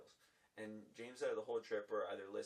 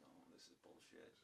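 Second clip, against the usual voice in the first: retold grumble; 5 semitones lower, 19 dB quieter than usual. Annoyed grumble in the night.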